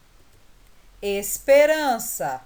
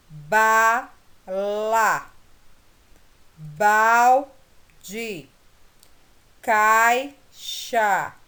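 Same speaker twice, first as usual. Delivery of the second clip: "Bola" split as "bo-la", beat by beat; syllables split; 3 dB louder, much slower than usual. Shown as a demonstration. Teacher splitting "Bola" into syllables for students. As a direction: tap out each syllable of "bola", "caixa". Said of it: "Vamos separar as sílabas".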